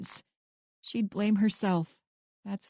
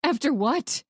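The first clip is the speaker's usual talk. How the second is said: higher, louder, scared question; nervous, frightened; 5 semitones higher, 4 dB louder than usual. Acted. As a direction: dread creeping into the question. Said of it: "Now she sounded nervous, frightened".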